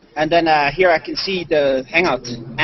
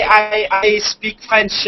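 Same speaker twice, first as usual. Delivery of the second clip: slow and deliberate; 3 semitones higher, much slower than usual. Shown as a demonstration. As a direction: draw each word out slowly. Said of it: "Or say".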